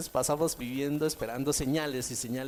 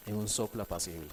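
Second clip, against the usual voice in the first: much softer, lower echo; near whisper; 8 semitones lower, 10 dB quieter, faster than usual. Acted. Preacher echoing God's gentle breeze, barely audible. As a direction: breathe it out almost silently.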